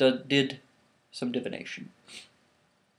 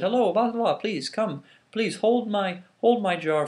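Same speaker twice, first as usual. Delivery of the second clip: sly trickster Eshu; 8 semitones higher, 5 dB louder than usual. Acted. Eshu the trickster asks a favour.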